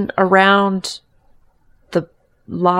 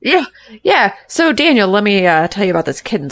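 excited; 7 dB louder, faster than usual. Acted. Loud eager chatter.

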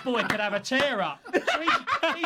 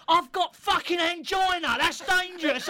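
high, louder, drawn-out protest; retold shout; 12 semitones higher, 3 dB louder than usual. Kit man choking on a Malteser on the plane, high indignant shout. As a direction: shout it as the outraged old kit man, pitched up. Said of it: "he shouts at Big Northern".

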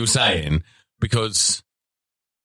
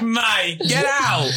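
high laughing; 14 semitones higher, much slower than usual. Retold or imitated. Telling son to leave, laughing.

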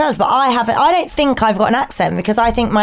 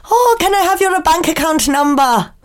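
high-pitched prank caller's put-on voice; Dom Jolly; 6 semitones higher than usual. Co-host recalls a TV prankster phoning people, prank-caller impression. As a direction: put on a silly, raised prank-call voice. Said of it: "what was that T V show, the Dom Jolly".

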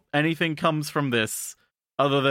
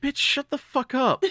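higher, slowed, laughing through it; mock snap; 10 semitones higher than usual. Everyone turns on the protagonist, laughing mock scorn. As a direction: snap at her while cracking up. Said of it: "everyone turning to her and being like".

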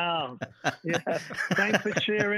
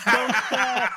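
put-on Liverpool accent; 4 semitones higher, 6 dB louder than usual. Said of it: "lost your Liverpool accent".

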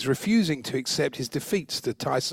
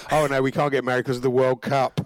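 mock excuse voice; 3 dB louder than usual.

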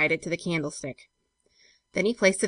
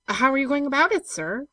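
higher, louder servant's question; raised, rising query; 8 semitones higher, 5 dB louder than usual. A narrator's reading. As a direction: ask the master, voice lifted. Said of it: "queried George".

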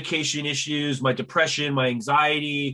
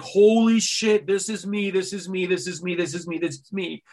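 amazed recognition; 3 semitones higher than usual. Retold or imitated. Reading the book and recognizing herself, amazed then hushed. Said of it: "every single page, I was like".

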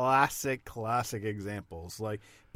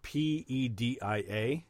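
spelling slowly; slower than usual. Shown as a demonstration. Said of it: "which language am I saying this in".

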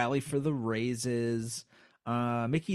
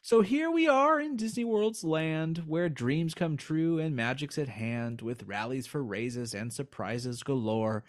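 poem reading. Acted. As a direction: read the verses with a bit of ceremony. Reads closing poem verse.

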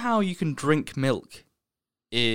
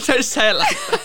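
talking through laughter; laughing; 11 semitones higher, 5 dB louder than usual. Real, not acted. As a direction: laugh while you say it, high. Both laughing over the word.

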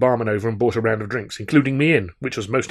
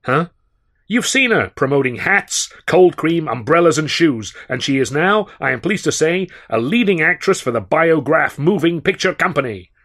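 higher, louder brash showman boast; bowl the barman over with names; blustering; 6 semitones higher, 6 dB louder than usual. A narrator's reading. Sennett boasting to the barman about his star, loud and brash.

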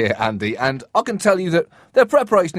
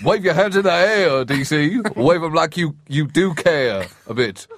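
hype man. Pretend. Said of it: "I'm the hype man at the start".

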